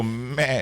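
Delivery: mimicked goat "meh"; imitated goat bleat. Radio host imitating an artist's goat act, bleating. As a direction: bleat it like someone doing a goat impression. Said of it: "hearing that Yax does goat".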